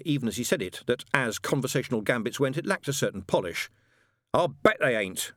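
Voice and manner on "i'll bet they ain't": slow, gloating retort; triumphant. Acted. Witchfinder scorns the angel's excuse, triumphantly. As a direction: savour the comeback with mild triumph. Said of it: "said Shadwell triumphantly".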